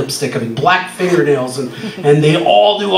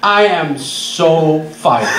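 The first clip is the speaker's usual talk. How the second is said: very slow, laughing at his own doom; rueful realisation; much slower than usual. Retold or imitated. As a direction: drag it out through a laugh. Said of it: "I go out in the street and I go".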